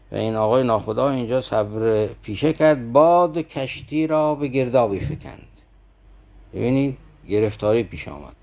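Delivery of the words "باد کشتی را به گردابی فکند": slow recited verse, a little higher; poem recitation. Acted. Preacher reading the next verse of the story, slow recitation. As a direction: lift the line and draw it out like poetry.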